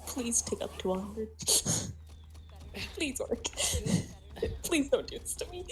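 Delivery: whispered pleading through giggles; laughing whisper. Real, not acted. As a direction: beg the loading bar, half laughing. Game stuck at ninety-nine percent.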